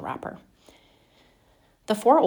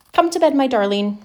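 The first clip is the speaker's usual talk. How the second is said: mother tender; 6 semitones higher, 6 dB louder than usual. A narrator's reading. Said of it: "said Charlie's mother".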